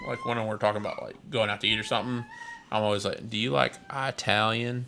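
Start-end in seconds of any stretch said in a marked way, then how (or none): 3.3-4.9 movie quote. Retold or imitated. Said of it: "which is what he says in the movie".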